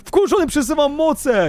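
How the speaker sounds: high, worked-up outburst; angry declaration. Real, not acted. Angered player summons powers, high fired-up anger. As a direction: declare it angrily with pitch jumping. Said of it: "jestem wkurzony".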